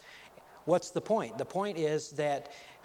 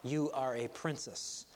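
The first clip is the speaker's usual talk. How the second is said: softer, lower queen leaning in to her daughter; a queen's quiet aside to her daughter before she speaks; hushed reminder; 4 semitones lower, 8 dB quieter than usual. Retold or imitated. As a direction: murmur it close to her ear, slowly. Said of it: "the queen leans over and says".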